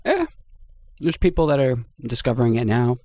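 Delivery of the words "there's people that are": mouth full. Real, not acted. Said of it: "Sorry, I'm just eating something".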